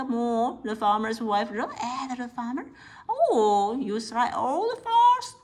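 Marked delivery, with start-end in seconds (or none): 3.1-5.3 excited shout. Acted. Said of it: "she said".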